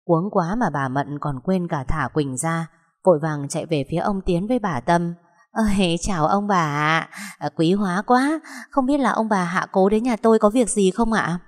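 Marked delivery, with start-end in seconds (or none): 5.5-11.4 effusive, over-polite welcome; flustered politeness. Acted. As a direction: greet unexpected guests with eager courtesy, pitch lifted. Flustered woman greets unexpected guests politely.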